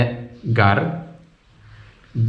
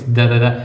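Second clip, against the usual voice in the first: automatic gun imitation; much faster than usual. Shown as a demonstration. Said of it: "If it's like automat".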